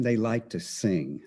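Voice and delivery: they like to sing in a light Texas drawl; Texas accent. Shown as a demonstration. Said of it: "That's my Texas accent".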